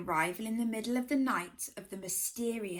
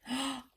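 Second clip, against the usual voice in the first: frightened gasp; 3 semitones higher, 7 dB quieter than usual. Acted. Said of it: "squeaked in fright".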